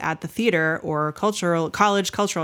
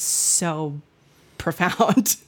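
laughing; much slower than usual. Real, not acted. Laughs mid-word, drawn out.

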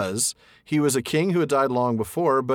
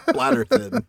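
laughing; 12 semitones higher, 3 dB louder, slower than usual. Real, not acted. Laughing, mocking the name.

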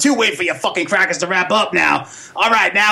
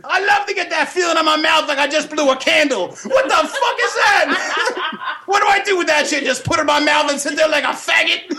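higher cartoon puppet voice, rowdy and laughing; Pops puppet voice; 10 semitones higher than usual. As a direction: play a brash puppet roasting trick-or-treaters in a higher voice.

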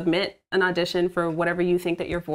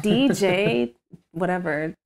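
sultry DJ voice; slower than usual. Shown as a demonstration. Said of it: "I would always just be like".

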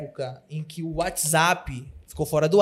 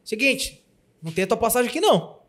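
curt agent voice; 4 semitones higher, 4 dB louder than usual. Retold or imitated. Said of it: "a empresária fala assim".

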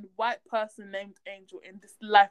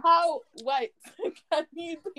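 laughing; 5 semitones higher than usual. Real, not acted. Laughing repeat.

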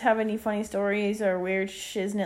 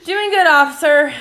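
laughing through the reply; 6 semitones higher, 10 dB louder than usual. Retold or imitated. Retelling answering the cop.

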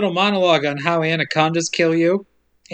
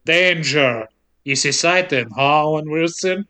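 lower-pitched impression cutting in; Voight; 3 semitones lower than usual. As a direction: lightly imitate a character interrupting. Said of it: "Then Voight cuts in to go".

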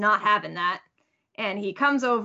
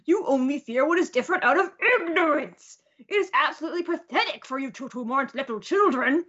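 mock scolding lecture, slightly raised pitch; retold yelling; 3 semitones higher than usual. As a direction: play an indignant telling-off without really shouting. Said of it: "And he's yelling".

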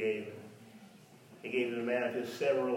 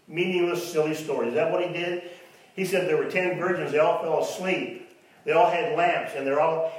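sarcastic; 3 semitones higher, 5 dB louder than usual. Acted. Sarcastic about silly stories.

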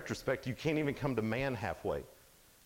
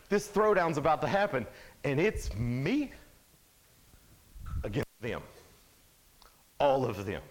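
hyped announcer; 2 semitones higher, 3 dB louder than usual. Retold or imitated. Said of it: "hyping the throwdown".

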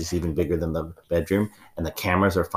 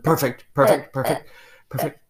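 delighted; 8 semitones higher, 3 dB louder than usual. Acted. Ma'am delighted.

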